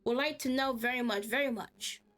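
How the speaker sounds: lightly voiced eccentric stranger, fussy and chattering; a hint of a strange, rambling old man; odd stranger voice. A confused stranger brushing off concern, lightly odd.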